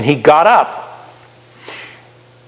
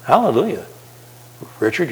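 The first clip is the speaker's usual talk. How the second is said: ordinary talk, nothing marked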